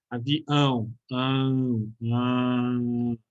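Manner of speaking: avião, ão, ão stretched through the nose; nasal ão. Shown as a demonstration. Teacher shows the nasal diphthong to students. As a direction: hum the ão out nasally. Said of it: "sai pela boca e sai pelo nariz".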